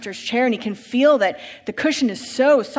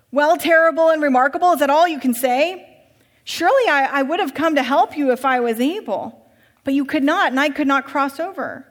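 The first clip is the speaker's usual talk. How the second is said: higher, louder, insistent rich master; urgent master; 4 semitones higher, 6 dB louder than usual. Acted. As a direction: hurry him inside, pleading and pressing. Master exasperated by the answer.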